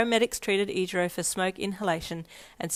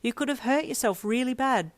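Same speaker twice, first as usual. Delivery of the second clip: raised-pitch worried scolding; emphatic; 6 semitones higher than usual. A narrator's reading. Friend quizzing him after the tumble downstairs, emphatic. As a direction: stress how serious it was. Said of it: "you quizzed him emphatically".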